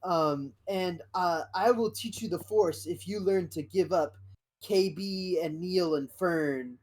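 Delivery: a hint of a grand Jedi offer; Luke Skywalker. Luke recruiting Wim, lightly voiced and high. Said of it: "they go".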